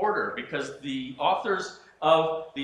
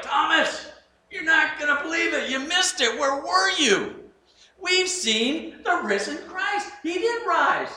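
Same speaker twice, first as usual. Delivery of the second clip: high, loud, breathless with excitement; excited shouting; 12 semitones higher, 5 dB louder, slower than usual. Retold or imitated. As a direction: burst out laughing with the good news. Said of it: "I think they were like".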